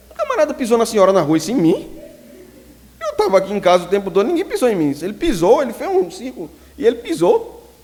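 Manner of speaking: indignação aguda e alta de menino; menino indignado. Retold or imitated. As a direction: protestar alto como criança. Menino indignado conta à mãe. (menino indignado contando à mãe)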